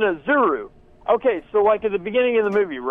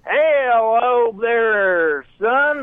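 slow, higher cop voice, calling him son; 5 semitones higher, slower than usual. Pretend. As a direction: play a slow, higher-pitched policeman. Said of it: "he's doing a bit".

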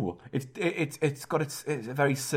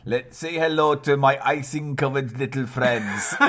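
hammed-up Latin American gangster accent; mock Latin American accent. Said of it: "more Latin American".

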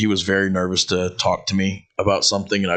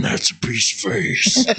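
mock leering old guy; 10 semitones higher than usual. Imitating old factory workers admiring her. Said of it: "old dudes in there that were like".

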